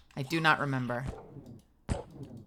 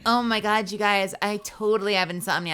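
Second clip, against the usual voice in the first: louder, higher mock dramatic voice; mocking valley girl; 5 semitones higher, 5 dB louder than usual. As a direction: parody someone overclaiming. Mocking people claiming insomnia.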